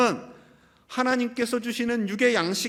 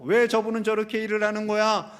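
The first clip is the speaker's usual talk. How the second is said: imitated irritated complaints; mildly exasperated string of complaints; annoyed grumbling; 3 dB louder than usual. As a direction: act out griping about a coworker. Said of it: "원망과 불평과 짜증이 나올 때도".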